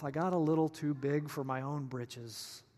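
low, subdued inner voice; soft, deflated musing; thinking to himself. Acted. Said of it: "just thinking to himself".

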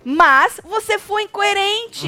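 high, very slow mock accusation; pointed retort. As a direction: drag out INCOERENTE with emphasis. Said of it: "disse o rapaz".

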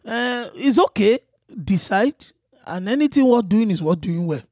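put-on advising in a Yoruba accent. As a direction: counsel like a Yoruba man. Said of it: "mine is a Yoruba man".

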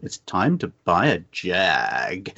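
lightly voiced TV motoring presenter, slow and low; hint of a presenter impression, slow low delivery; Jeremy Clarkson. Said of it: "my just best Jeremy Clarkson impression".

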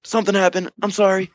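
lightly voiced apologetic drunk buddy; sheepish drunk friend.

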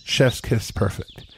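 slow, relishing each word; slow savoring. Shown as a demonstration. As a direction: draw it out like tasting food. Savoring his own perfect work.

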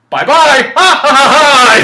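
high, loud maniacal cackle; unhinged villain. Retold or imitated. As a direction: cackle like a cartoon villain escaping. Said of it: "It's like".

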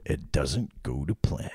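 measured narration, dropping low and soft; slow down ominously for the twist; narrating voice. Pretend. Co-host revealing the heist goes wrong, narrating voice. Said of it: "my narrating voice".

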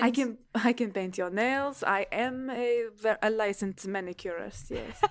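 hammed-up bad French accent; comically poor French accent; terrible French accent. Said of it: "My terrible French accent".

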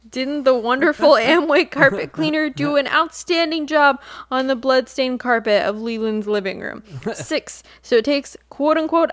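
grave, dramatic reading of a forum post; serious dramatic reading. Pretend. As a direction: read it like a solemn proclamation. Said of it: "We can do serious, not silly".

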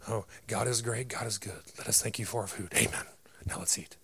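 quick, fading mumbled grace said by rote; a half-hearted grace that trails off to a hush; rote mealtime prayer. Pretend. Churchgoer rattling off grace before eating, mock rote. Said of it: "or you just pray over your food".

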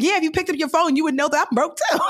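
high scolding breaking into laughter; laughing exasperation. Retold or imitated. Broke friend to bestie who ignored calls, high laughing scold. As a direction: tease her loudly, cracking up at the end.

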